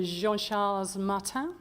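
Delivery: French name in a poor French accent; slow, careful go at French pronunciation; attempted French accent. Real, not acted. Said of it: "very poor accent there".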